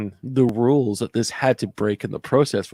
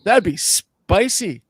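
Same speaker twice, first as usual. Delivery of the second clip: Jeremy; 5 semitones higher, slower than usual. Retold or imitated. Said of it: "as Jeremy would say".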